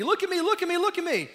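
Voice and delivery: high, loud demanding cries; loud, high-pitched look at me; mock screaming. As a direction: shout it like a needy app begging for eyes. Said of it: "is in your face screaming".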